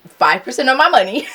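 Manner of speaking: high-pitched playful complaint; joking money lament. Real, not acted. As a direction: raise the pitch in comic disbelief. Jokes about handing over money.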